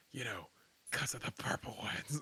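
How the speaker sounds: hushed, breathy whisper under the breath. Acting out a remark inside the tent to another character: whispering. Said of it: "I'm gonna whisper in the tent".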